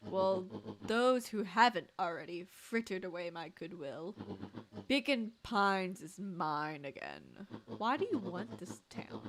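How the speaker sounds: smooth scheming villain, lightly voiced; a hint of a gloating mastermind. Villain speech continues.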